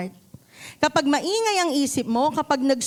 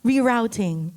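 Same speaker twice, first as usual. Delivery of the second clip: calm navigation voice; 3 semitones lower than usual. Retold or imitated. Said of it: "mahinahon sasabihin ni Waze".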